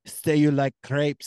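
loud, slow bully voice; acted arm-twister's slow, loud order; mock arm-twisting demand. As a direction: force a confession, hammed up. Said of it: "her twisting his arm going".

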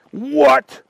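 high, startled exclamation; shocked dragon. A narrator's reading. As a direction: react in disbelief, pitch jumping up.

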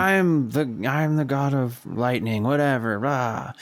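a hint of a swaggering god; lightly voiced Thor. Imitating a cocky hero claiming the god title, mock boast. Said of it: "where he's just like".

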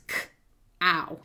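"K" then "ow" said as two separate sounds with a pause; sounds split apart. Shown as a demonstration. Therapist splitting cow into its two sounds, slowly. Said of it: "there's only two sounds".

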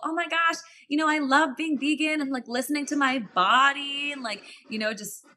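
a lightly voiced chirpy vegan influencer; mock gushing vegan. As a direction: sell veganism sweetly and mockingly. Parodying her vegan pitch.

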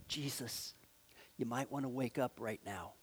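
soft, quiet, almost apologetic nudge; gentle polite wake-up call. Shown as a demonstration. Preacher showing how we nudge Jesus, softly. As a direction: timidly ask him to wake up. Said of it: "we kind of do this".

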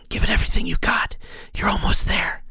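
fast, eager whispered coaching; urgent inner whisper. Acted. The inner voice urges Ank, fast whisper. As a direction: push him on in a quick hush.

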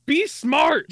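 slow high mock coach shout; coach yelling. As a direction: bark it like a sideline coach. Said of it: "his coach being like".

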